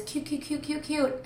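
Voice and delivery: gushing. Real, not acted. Gushing over a sweet scene.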